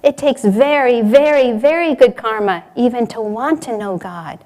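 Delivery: firm emphatic answer, "very" stressed repeatedly; very strong, strict. Retold or imitated. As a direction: stress on each "very", punched and separated. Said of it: "He was very strong. He said".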